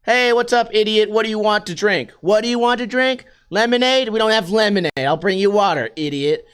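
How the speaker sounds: lightly voiced insolent server; rude waiter. Waiter talking shit to diners, rude. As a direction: toss out mild insults as a waiter. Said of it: "the waiters just talk shit to you".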